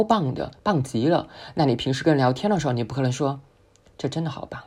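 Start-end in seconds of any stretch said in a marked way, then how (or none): 4.0-4.6 soft and dull "好棒" with no excitement; flat, unexcited. Shown as a demonstration. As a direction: say "好棒" like you don't care. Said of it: "你没有体现出兴奋的感觉吧". (有气无力地说"这真的好棒")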